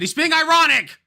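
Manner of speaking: loud, high dismayed cry; shocked realization. Real, not acted. Streamer realizes the video was ironic, cries out. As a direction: realize you got tricked. Sudden realization of being fooled.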